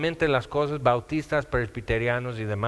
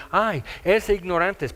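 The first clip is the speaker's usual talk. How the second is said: burla despectiva imitada; 3 semitones higher than usual. Retold or imitated. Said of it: "porque dicen".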